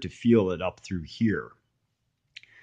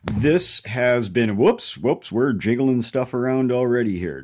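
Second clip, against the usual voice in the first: too much caffeine; 4 semitones higher, 7 dB louder than usual. Real, not acted. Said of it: "I am absolutely wired on coffee".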